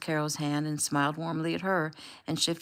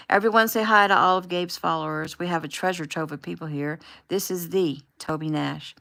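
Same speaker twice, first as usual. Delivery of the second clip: bubbly livestream host; 5 dB louder than usual. Acted. Taylor hosting livestream to followers.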